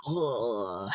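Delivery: long drawn-out groan of being hit; imitated stunned groan. Imitating the game hero getting hit, stunned groan. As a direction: groan slowly, acting stunned.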